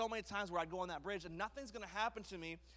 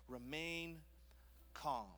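calm, slow close; 4 dB quieter, much slower than usual. Shown as a demonstration. Preacher closing the point, calm and slow. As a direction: settle them with it. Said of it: "repeated slow drop".

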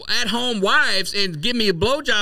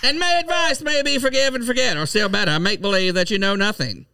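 1940s voice. Acted. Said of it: "That's my nineteen forties voice".

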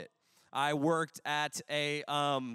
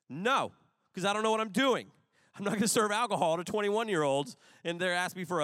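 emphatic protest; 5 semitones higher, 4 dB louder, faster than usual. Real, not acted.

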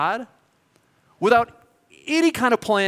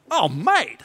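a light Australian twang on mate; Australian accent; 3 semitones higher than usual. Retold or imitated. The Kiwi guy answering the Yanks, in a light Australian accent. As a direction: drawl it like an Aussie local. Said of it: "impressed with my Australian accent".

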